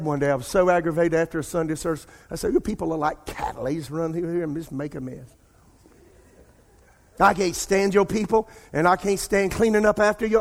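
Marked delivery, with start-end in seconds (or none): 2.5-10.4 retold irritated rant. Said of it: "I had an attitude".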